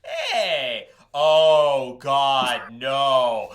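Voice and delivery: loud, high cry of alarm; panicked shout. Real, not acted. Player yelling in panic as dragons are revealed, loud and high. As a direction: yell out in real panic.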